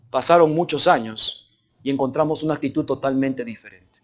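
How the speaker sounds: ordinary delivery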